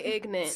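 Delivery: "ignorant" squashed to IG-nunt; two-syllable slang "ignorant". Shown as a demonstration. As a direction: drop the middle R of "ignorant", say ig-nant. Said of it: "I say ignorant".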